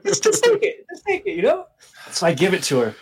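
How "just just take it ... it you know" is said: very high, squeaky mock insistence; hammed-up awkward hand-off, pitched way up; squeaky awkward pleading. Giving the girl his number to end it, squeaky and awkward.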